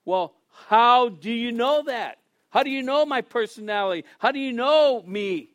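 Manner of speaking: retold amazement, pressing each question; taken aback. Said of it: "this is what caught his attention".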